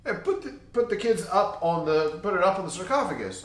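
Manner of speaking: high, eager guide voice; tour guide voice. Retold or imitated. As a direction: play the pushy tour guide. Tour guide quoted in story.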